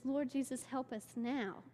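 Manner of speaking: imitating a calm prayer; quiet prayer. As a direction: pray it gently, unhurried. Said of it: "she just kind of prays it".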